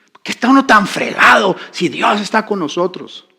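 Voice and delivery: high-pitched exasperated protest; acted indignant grumble at God; angry complaint. Preacher voicing believers who question God, exasperated. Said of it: "Es normal enojarse de vez en cuando".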